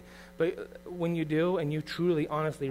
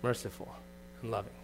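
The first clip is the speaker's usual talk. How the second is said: softer, slower and falling; 4 semitones lower, 10 dB quieter than usual. Shown as a demonstration. Preacher showing how to sound merciful and loving, soft and slow. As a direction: say it gently and let it fall. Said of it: "It's to be gracious".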